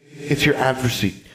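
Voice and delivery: put-on high, knowing child voice; smug ghost girl. Ghost girl telling Alexandra about her Geist, smug high child voice. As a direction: tease with a secret.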